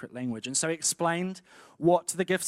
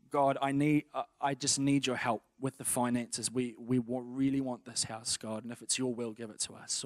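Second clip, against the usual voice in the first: example prayer; 2 semitones lower than usual. Shown as a demonstration. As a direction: pray earnestly, fading toward the end. Example prayer addressed to God.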